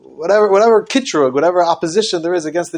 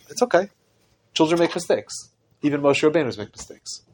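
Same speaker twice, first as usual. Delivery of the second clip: softer, gentle reassurance; God gently reassuring Moshe; gentle compassion; 5 dB quieter than usual. Acted. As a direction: comfort a child who slipped up. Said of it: "now Hashem speaks gently".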